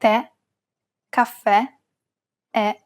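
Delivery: Tè, caffè, è with a stressed open E, as in "bet"; open, stressed final E on Tè, caffè, è. Shown as a demonstration. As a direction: say Tè, caffè, è one by one, each ending on open E. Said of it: "pronounce it as an open E".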